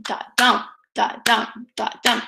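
"da-dum" with the weight on DUM; spaced "da-dum" pulses, each landing on the second beat; heavier second beat. Shown as a demonstration. Teacher shows where the beat lands, "da-DUM" stressed second. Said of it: "the heavier beat comes second".

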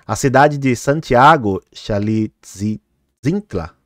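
"Xalitzintla" slowed right down and sounded out syllable by syllable; picking carefully through "Xalitzintla"; careful pronunciation. Real, not acted. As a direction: ease slowly through "Santiago Xalitzintla", minding every syllable. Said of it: "olha que pronúncia complicada".

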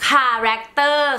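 "คาแรคเตอร์" with a hard K sound at the start; correct pronunciation. Shown as a demonstration. Vlogger showing viewers she now says it right, careful K in "คาแรคเตอร์". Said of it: "ดาวออกเสียงถูกแล้วเนาะ".

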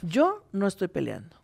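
mock serene refusal to argue. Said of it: "bajes la voz y te tranquilices".

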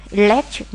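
"electric" stressed on LEC; second-syllable stress. Shown as a demonstration. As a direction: repeat e-LEC-tric with the middle syllable stressed. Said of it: "nhấn âm hai".

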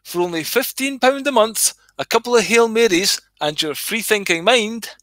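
a mildly voiced pushy salesman luring people in; church as salesman. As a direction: hawk salvation like a cheesy insurance salesman. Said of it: "It's like".

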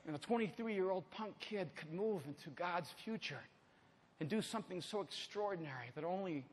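low, soft, earnest tribute; quiet, reverent pulpit delivery; solemn preaching. Real, not acted. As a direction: keep it hushed and weighty.

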